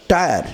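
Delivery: "টায়ার" with Y sounded as long "ai". Shown as a demonstration. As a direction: demonstrate the "ai" vowel in "টায়ার". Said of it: "আই উচ্চারণ হতে পারে". ("টায়ার"-এ ওয়াইয়ের আই উচ্চারণ)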